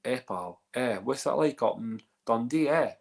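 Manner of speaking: lightly put-on Dundee accent; Dundonian accent. Host shows Michael how Dundee sounds, light Dundonian accent. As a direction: switch into Dundee Scots banter. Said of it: "Or we could be more like Dundonian".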